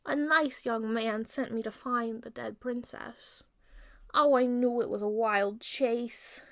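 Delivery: slow attempt at an Israeli accent; drawn-out, badly faked Israeli accent; slow old-woman voice with attempted Israeli accent; Gal Gadot. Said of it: "I can't do a Gal Gadot accent".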